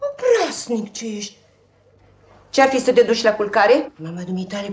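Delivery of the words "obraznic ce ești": laughing fondly. Acted. Nanny teasing the boy fondly.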